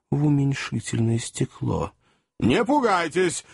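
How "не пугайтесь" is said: mild call. Acted. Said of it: "крикнул старый хозяин".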